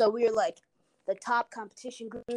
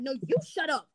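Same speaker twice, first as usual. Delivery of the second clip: high mock yell at normal volume; retold yelling back; 4 semitones higher than usual. Girl answers mom back, mock yelling. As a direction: imitate the girl's comeback, pitched up. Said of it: "they're yelling".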